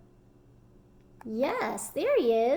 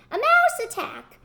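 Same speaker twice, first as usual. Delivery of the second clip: high, louder panicked shriek; louder hollering; 12 semitones higher, 6 dB louder than usual. Acted. Storyteller to children, collector woman flees the mouse, louder shriek. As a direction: top the last cry, even louder. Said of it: "she ran hollering".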